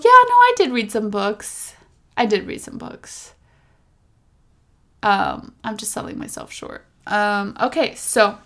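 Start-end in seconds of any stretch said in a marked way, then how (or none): 2.2-3.3 softer whisper to herself; hushed repeat to herself; whispered aside. Real, not acted. 5.6-6.8 much softer whisper to herself; hushed self-correction; whispered aside. Real, not acted.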